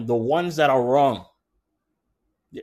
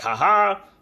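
gloating; 2 semitones higher than usual. Retold or imitated. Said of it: "there's no glee in his voice".

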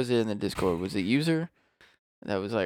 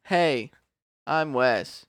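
lightly mimicked self-introduction, a little raised; impression of Wes; 2 semitones higher, 4 dB louder, much slower than usual. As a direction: echo the mock introduction, a bit louder. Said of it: "Doing impressions of yourself?".

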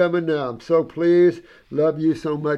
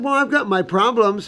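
put-on modest old woman; 7 semitones higher, 4 dB louder than usual. Old woman's modest reply quoted.

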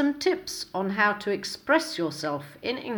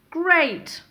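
higher, eager "Great."; upbeat great; 7 semitones higher, 4 dB louder than usual. Shown as a demonstration. Teacher modelling a happy answer to how are you, eager. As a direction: sound pleased saying "Great.". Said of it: "try using some of the following".

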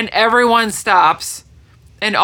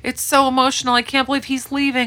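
mock weepy; 5 semitones higher than usual. Mocking her earlier emotional self.

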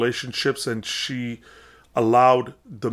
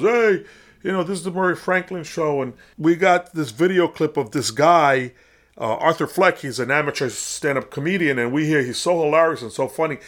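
higher, hammed-up TV host intro; Murray Franklin host voice; 4 semitones higher than usual. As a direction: play a cheesy talk show host introducing a guest. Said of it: "and he goes".

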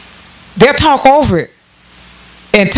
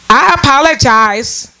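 I apologize drawn out slowly and pitched up, no meaning behind it; mocking apology, pitched up; 3 semitones higher, slower than usual. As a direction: stretch it like a lazy catchphrase. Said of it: "That's how they say it".

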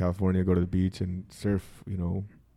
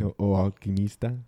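Portuguese accent. Shown as a demonstration. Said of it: "You said it in a Portuguese accent".

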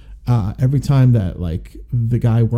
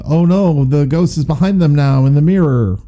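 higher-pitched mock horror-movie dread; mock alarm; 4 semitones higher, 4 dB louder than usual. Host mocking a clichéd mirror ghost scare, mock alarm. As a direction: play up a hokey scare, pitched up.

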